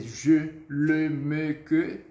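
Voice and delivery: "Je, le, me, que" each with pouted "eu"; French E. Shown as a demonstration. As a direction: list "Je, le, me, que" one by one, rounding every E. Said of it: "Esse é o E do francês".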